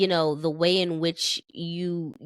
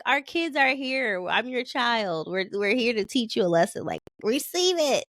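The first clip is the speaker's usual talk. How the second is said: retold lecture; 5 semitones higher than usual. Retold playful lecture to mom.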